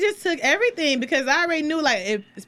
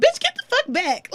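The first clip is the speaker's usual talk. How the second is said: high-pitched mock-furious outburst; indignant retort, close to laughing; retold anger; 11 semitones higher than usual. Driver retelling the roadside confrontation, high-pitched mock anger. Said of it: "Like, I was so mad".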